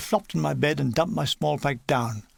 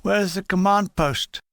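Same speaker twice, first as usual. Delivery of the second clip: shouting in pain; 3 semitones higher than usual. Retold or imitated. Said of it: "a voice in pain was shouting".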